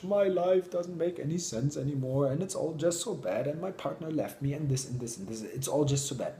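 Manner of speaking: lightly hammed-up whiny grown-up; mock whining. The speaker mocks the way grown-ups complain, in a light whine. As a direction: moan it like a sorry-for-yourself adult. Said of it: "grown-ups whine so much".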